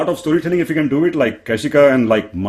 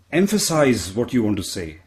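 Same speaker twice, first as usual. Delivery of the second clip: slow, carefully enunciated; measured coaching emphasis; emphatic advice; slower than usual. Retold or imitated. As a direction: spell it out clearly. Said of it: "people telling me".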